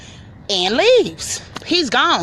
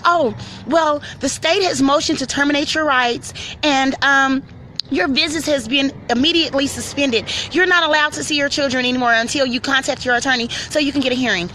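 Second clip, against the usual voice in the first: high, prim official reading bad news; mock caseworker; 4 semitones higher than usual. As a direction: recite it like a bored bureaucrat.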